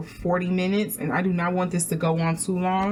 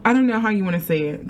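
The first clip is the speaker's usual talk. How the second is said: normal talking voice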